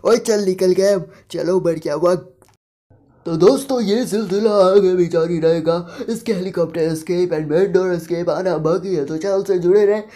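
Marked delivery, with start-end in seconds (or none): 2.1-10.0 youtuber outro. Acted. Gamer signs off to his viewers, energetic outro. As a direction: wrap up for the subscribers.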